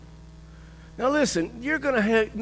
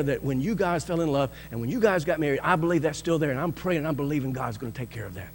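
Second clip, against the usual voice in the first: tender prayer. Retold or imitated. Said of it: "What you need is somebody to say".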